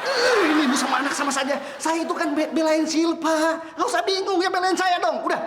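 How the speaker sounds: high, agitated complaint; exasperated protest. Acted. Uncle demanding his niece take his side, exasperated protest.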